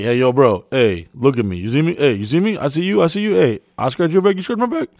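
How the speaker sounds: imitating a hyped-up customer at the bar. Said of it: "I prefer to be like".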